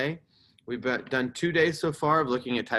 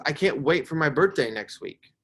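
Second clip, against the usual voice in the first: higher, mildly excited reading; excited exclamation; 4 semitones higher, 3 dB louder than usual. Shown as a demonstration. Teacher reads a birthday example to fourth graders, excited. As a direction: read it with eager emphasis. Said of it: "They're super excited".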